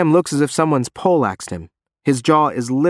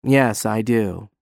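smug; slower than usual. Acted. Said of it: "He sounds smug".

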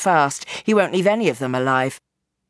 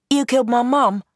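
a touch higher, firm accusation; lightly voiced accusing girl; 6 semitones higher than usual. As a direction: throw it at him, cold and hurt. Girl accuses her mother's killer.

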